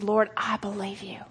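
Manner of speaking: soft unvoiced confession; whispered prayer. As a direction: whisper it to the Lord. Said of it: "And I said".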